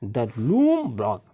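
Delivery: reading the story aloud, word by word; slow, careful read-aloud for the class; slow passage reading. Acted. Teacher reading the passage to her pupils, slow and deliberate.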